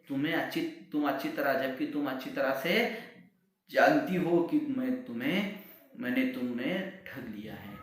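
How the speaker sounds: angry shout. Acted. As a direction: shout it in a rage. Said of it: "गुस्सा आया और उन्होंने कहा".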